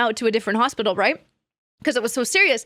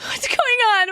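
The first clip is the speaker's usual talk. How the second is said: retold crying; 9 semitones higher than usual. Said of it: "I'm, like, crying".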